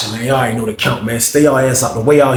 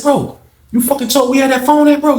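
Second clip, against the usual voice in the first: retold accusation; 10 semitones higher than usual. Accusing snitch.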